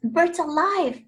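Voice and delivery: high, slow joyful call. A narrator's reading. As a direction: call it out across the crowd, slowly. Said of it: "she called out".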